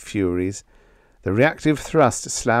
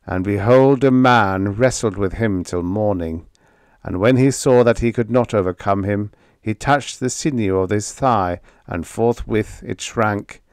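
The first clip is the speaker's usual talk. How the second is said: scripture quote; 4 dB louder than usual. A narrator's reading. Quoting scripture bitterly.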